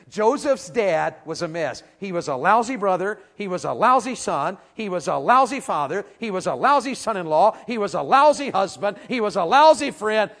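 lousy hammered harder each line, rising to a shout; each lousy heavier until it's a full shout; building preacher's shout. Real, not acted. Preacher's list of Jacob's faults.

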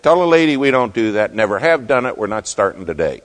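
imitating a blunt refusal, loud at first; abrasive, direct. Vice president turning the lady down, abrasive imitation. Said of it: "he's kind of abrasive".

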